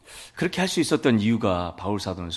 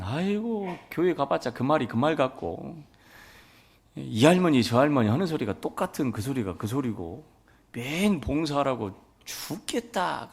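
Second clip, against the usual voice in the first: grumbling mother; 6 semitones higher than usual. Retold or imitated. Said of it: "그러시더라고요".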